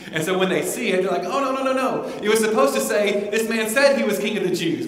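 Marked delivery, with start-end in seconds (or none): 1.2-4.9 loud, high-pitched acted protest; agitated objection. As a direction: object urgently, voice jumping up. Acts out authorities objecting to inscription.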